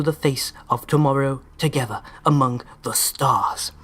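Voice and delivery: lightly put-on celebrity accent reading a company history; Christopher Walken. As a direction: hyperkinetic take on a halting, famous speech pattern. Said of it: "I was going vaguely for Christopher Walken".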